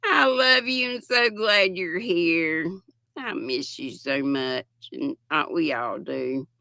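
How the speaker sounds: fond and sincere, a little emotional; tender reply. Retold or imitated. Granny D telling a missed friend she loves her, tender. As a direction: speak to her like a dear friend. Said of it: "And I always say".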